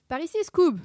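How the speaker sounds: high, loud call; urgent shout. A narrator's reading. Sammy runs toward the armour, shouting to Scooby. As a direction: call your friend over urgently. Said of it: "cria Sammy".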